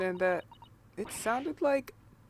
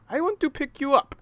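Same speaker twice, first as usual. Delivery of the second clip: loud, high, laughing threat; 9 semitones higher, 17 dB louder than usual. Acted.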